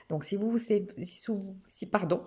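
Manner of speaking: false starts, tripping on the phrase; stammered restarts, losing the thread; stumbling over words. Real, not acted. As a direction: fumble the sentence and apologise. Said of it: "je bafouille".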